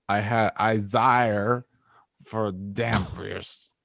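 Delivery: low, slow vampire voice, lightly done. Acted. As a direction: drag it out like a vampire. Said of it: "vampire impression".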